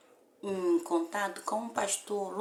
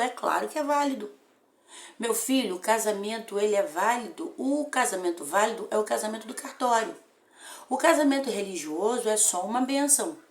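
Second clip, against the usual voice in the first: pastor reassuring; 4 dB louder than usual. Retold or imitated. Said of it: "Ele falou".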